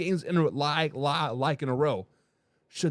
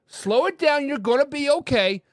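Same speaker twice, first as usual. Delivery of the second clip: reassuring fans; 6 semitones higher than usual. Acted. Reassuring worried Eagles fans.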